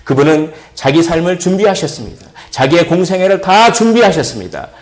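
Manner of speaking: rising, ringing sermon cadence; preaching. Acted. Pastor preaching to his church, ringing sermon voice. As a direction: preach it, building toward the call.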